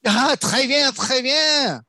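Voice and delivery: loud, high, showy delight; delighted French exclamation. Pretend. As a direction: exclaim grandly in playful French. Delighted French reply on hearing Paris.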